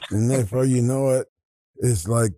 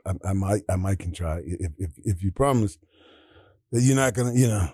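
low, hesitant stammer on the first words; little stutter; 6 semitones lower than usual. Retold or imitated. Quarterback warily agreeing to try for his coach, little stutter. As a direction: imitate a halting, repeating speaker. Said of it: "he had a little stutter in his voice".

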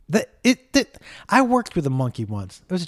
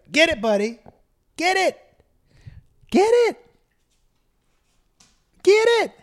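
much higher, rising pet voice; excited dog talk. Real, not acted. Urging the new dog to grab the toy, high and eager. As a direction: egg the puppy on in a squeaky voice.

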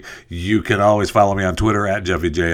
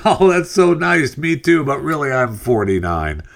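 flattered lady; 8 semitones higher than usual. Acted. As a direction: gush like a lady pleased with her facelift. Teller voices flattered lady in joke.

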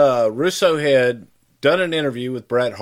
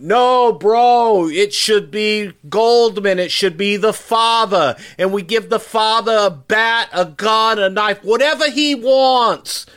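high, loud, insistent pitch; over-the-top excited pitchman impression; Vince Russo; 9 semitones higher, 3 dB louder than usual. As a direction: push every phrase up high, excitedly selling the idea. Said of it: "That was Vince Russo's idea".

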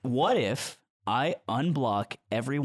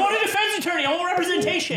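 high, loud demand; 6 dB louder than usual. Real, not acted. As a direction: insist on your rights, loudly. Mock trial, demanding a lawyer.

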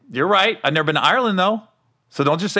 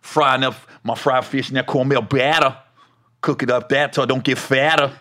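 E-40; 4 semitones lower than usual. Acted. Comic retrying his made-up lyric, low rapper impression. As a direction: lower mock rapper voice. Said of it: "did that sound like E forty".

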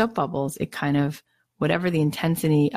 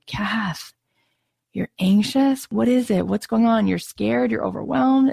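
put-on kind older self; 5 semitones higher than usual. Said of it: "being like".

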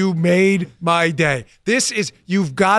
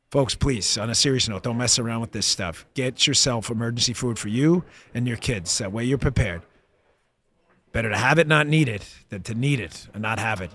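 lower, softer sponsor read; earnest ad read; 6 semitones lower, 4 dB quieter than usual. Real, not acted. Host urges listeners to buy emergency food, earnest ad read. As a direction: deliver the sponsor pitch low and sincere.

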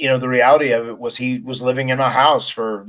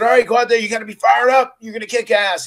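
much higher, louder hype shout; fired-up pep talk; 10 semitones higher, 5 dB louder than usual. Retold or imitated. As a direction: pump him up like a coach in the locker room. Retold writer firing him up.

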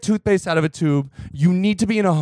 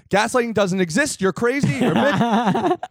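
1 mock gaslighter; 4 semitones higher than usual. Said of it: "He said".

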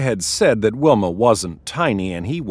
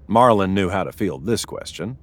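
ordinary delivery, nothing marked

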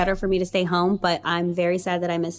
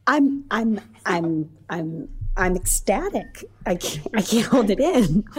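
shaky voice; slower than usual. Real, not acted. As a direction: voice shaking with excitement. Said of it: "You're shaking".

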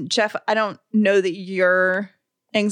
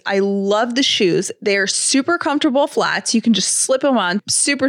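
ad read. Acted. Podcast host reading a shoe ad to listeners, cheerful ad read. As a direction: gush about the shoes to listeners. Reads a sponsor ad.

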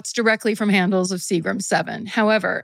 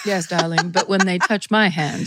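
badly imitated British rock star; lightly attempted British accent, a bit theatrical. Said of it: "I'm not doing a British accent correctly at all".

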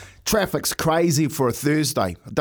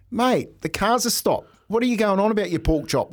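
higher, exasperated comeback to the cabbie; mock indignant retort; 5 semitones higher than usual. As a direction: act out snapping back at the taxi driver, higher. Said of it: "Like this".

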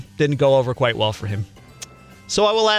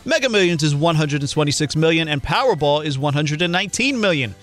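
steady sponsor read-out. Acted. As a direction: read the ad copy evenly. Reads sponsor ad.

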